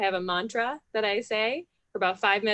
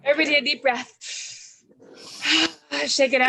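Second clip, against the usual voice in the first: higher, louder call to breathe and shake it out; energetic group cue; 6 semitones higher, 5 dB louder, faster than usual. Real, not acted. Coach calling the whole room to breathe, high and loud. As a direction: pump the room up into a big breath.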